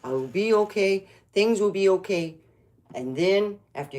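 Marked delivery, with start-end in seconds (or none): 0.0-2.3 soft reassuring self-talk, dropping quieter; calming self-talk. Shown as a demonstration. Showing viewers how to ground themselves, soft and reassuring. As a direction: talk yourself down gently. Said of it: "you ground yourself and you go".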